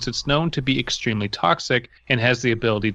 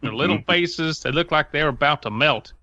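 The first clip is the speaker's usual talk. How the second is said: put-on a light Southern accent for the scared deputy; 2 semitones higher than usual. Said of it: "I always love your southern accent guy".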